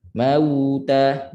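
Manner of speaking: "Mauta" with the w glide held and flowing into ta; flowing waw. Shown as a demonstration. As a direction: keep voicing through the w of "Mauta". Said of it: "Suara mengalir pada waw mati". ("Mauta" suara mengalir pada waw)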